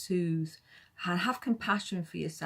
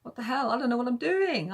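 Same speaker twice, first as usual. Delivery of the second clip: mock panic; 5 semitones higher, 3 dB louder than usual. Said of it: "at first it's like".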